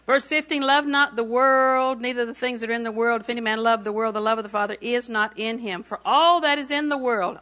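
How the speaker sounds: emphatic Bible reading from the pulpit; declaimed verse with punched openings; scripture reading. Real, not acted. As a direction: read the verse out firmly, stretching key words. Reads scripture aloud to congregation.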